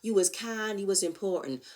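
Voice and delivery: quoting The Help. Retold or imitated. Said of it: "On some".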